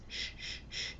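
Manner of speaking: soft unvoiced shh to calm a child; a mother's soothing shush; shushing whisper. Shown as a demonstration. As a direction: hush them gently in a whisper. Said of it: "model quiet voice".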